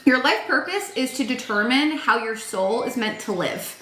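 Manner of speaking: ordinary talk, nothing marked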